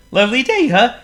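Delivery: high, loud squeaky penguin; a gloomy little penguin sighs. A narrator's reading. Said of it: "greeted Waldo".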